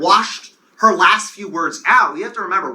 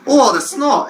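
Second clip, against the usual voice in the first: higher, overdone upstate New York vowels; mock upstate New York accent; exaggerated upstate New York accent; 6 semitones higher than usual. Shown as a demonstration. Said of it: "I'm definitely over exaggerating".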